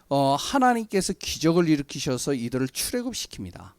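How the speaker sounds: loud, projected sermon delivery; emphatic preaching. Real, not acted. Preacher telling the congregation about the Exodus, loud and emphatic. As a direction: preach the Bible story out with force.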